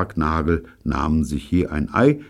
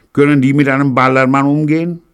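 polite; 11 semitones higher, 10 dB louder, faster than usual. Acted. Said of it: "fragte Pirolo höflich".

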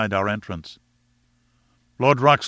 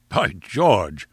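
surprised cry; 3 semitones lower than usual. A narrator's reading. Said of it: "cried our peer".

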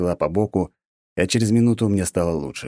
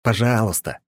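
grudging please; 4 semitones higher than usual. A narrator's reading. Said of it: "наткнувшись на самодовольную морду бога".

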